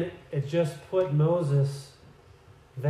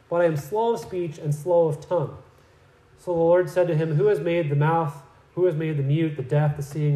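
raised, earnest Bible reading; scripture reading; 2 semitones higher than usual. Acted. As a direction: read the verses out to the congregation. Reads scripture verses aloud.

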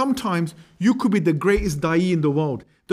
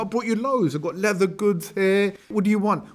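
pitched up high, eagerly showing off presents; eager gift offer; 4 semitones higher than usual. Retold or imitated. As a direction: gush over the gifts like a proud friend. Amr eagerly presents gifts to king.

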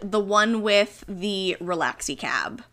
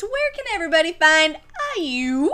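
robot voice; 6 semitones higher than usual. Pretend. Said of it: "you sound like a robot".

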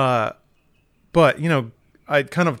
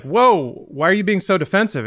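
raised-pitch, louder protest; taken-aback retort; 6 semitones higher, 3 dB louder than usual. Retold or imitated. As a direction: push back in startled disbelief, retold. Teller's startled reply in retold quarrel.

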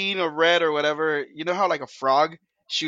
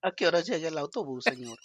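rancho voice; 5 dB quieter, faster than usual. Pretend. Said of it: "say it in your rancho voice".

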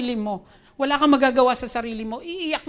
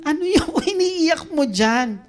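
raised, slow scolding with a laugh in it; mock scolding; 4 semitones higher, 4 dB louder than usual. The Lord supposedly telling off a weeping Moses, mock scolding. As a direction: scold half-jokingly, drawing it out. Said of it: "Hala, pinagalitan na to kasi umiiyak".

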